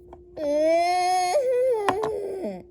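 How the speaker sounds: loud, drawn-out whine; long mock wail. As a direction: wail it out in one long breath.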